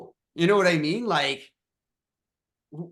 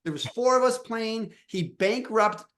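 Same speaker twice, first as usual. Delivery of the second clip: laughing disbelief; 8 semitones higher than usual. Real, not acted. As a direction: laugh through the brag. Laughing incredulous about five-year-old.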